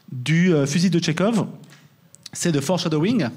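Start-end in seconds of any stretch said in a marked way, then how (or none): 2.6-3.3 foreshadowing said with an English accent, not a French one. Shown as a demonstration. Lecturer showing off his English accent on foreshadowing. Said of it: "notez mon accent".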